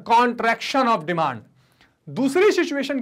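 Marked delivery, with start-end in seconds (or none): 0.1-1.4 very slow, every syllable separate; slow repeated term. Shown as a demonstration. Teacher repeating the English term for the class, very slow. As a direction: drill it slowly a second time. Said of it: "क्या कहते हैं sir?".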